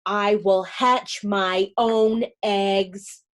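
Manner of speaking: slow, lightly quacked vow; quacking duck. Acted. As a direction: say it slowly, like a duck quacking her resolve. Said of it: "Jemima Puddle Duck quacked".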